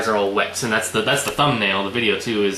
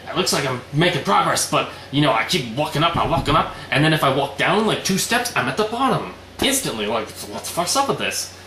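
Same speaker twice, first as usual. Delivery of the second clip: higher-pitched, mildly mad complaint; mock exasperation; 3 semitones higher than usual. Retelling Noah stuck on the stairs, mock-mad complaint. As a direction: imitate someone fed up with getting nowhere. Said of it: "Noah's also just mad".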